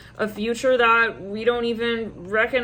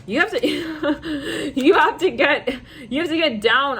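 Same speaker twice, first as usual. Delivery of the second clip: laughing through words; 5 semitones higher, 3 dB louder, slower than usual. Real, not acted. Reader cracking up over a channelled message, laughing. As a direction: laugh breaking up the words, higher. Breaks up laughing while reading.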